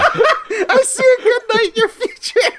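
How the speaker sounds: high, slow, laughing mystic voice; psychic hotline. Pretend. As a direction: drawl it like a cheesy fortune teller. Repeats psychic line, high voice.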